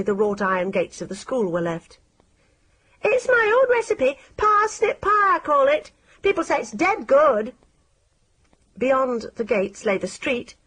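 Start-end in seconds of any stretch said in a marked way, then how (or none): 3.0-7.5 high, sly, coaxing villain voice; wheedling stranger offering pie; creepy Crippen. A narrator's reading. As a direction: lure the child with false sweetness.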